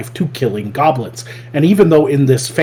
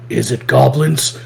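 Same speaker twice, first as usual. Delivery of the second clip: slow, lightly imitated deadpan hero; a hint of stoic monotone, unhurried; monotone stoic slayer. Goblin Slayer answering a guild member, lightly voiced stoic monotone. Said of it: "monotoned and stoic".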